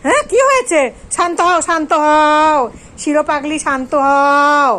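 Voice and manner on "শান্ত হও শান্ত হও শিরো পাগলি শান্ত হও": slow, gentle calming of an upset pet; drawn-out hushing to settle the animal; soothing pet talk. Real, not acted.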